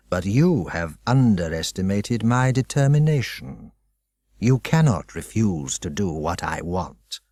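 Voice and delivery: a hint of a calm, menacing headmaster; lightly voiced, controlled threat; cold headmaster. Headmaster calmly warning Dinah, lightly voiced menace.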